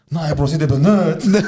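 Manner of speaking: giggling as you retell his excuse; laughing through a quote. Retold or imitated. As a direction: quote the cousin while laughing. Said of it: "und hat sie gesagt".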